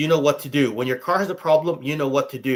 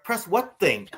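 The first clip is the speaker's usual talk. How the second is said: ordinary talk, nothing marked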